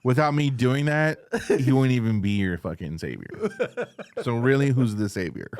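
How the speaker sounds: a hint of a smug traitor justifying himself; defiant Judas. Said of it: "That's exactly what you'd sound like".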